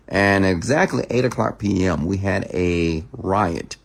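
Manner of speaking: mock news anchor read. Shown as a demonstration. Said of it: "I do a news voice for you".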